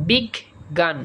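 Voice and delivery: বিগ গান split in two, a pause between the Gs; doubled G. Shown as a demonstration. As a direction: break it as বিগ, then গান. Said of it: "গ কথাটা দুইবার উচ্চারণ করতে হয়".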